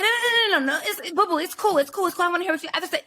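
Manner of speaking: high, sugary mock voice of the date; high mock "it's cool, boo" reassurance; mock eager boyfriend. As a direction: coo it like a desperate suitor. Mimicking date's eager reassurance.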